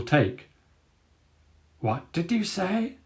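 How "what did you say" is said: softer, slow amused dog voice; a quiet, almost smiling disbelief; amused Dagger. A narrator's reading. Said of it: "approaching a smile".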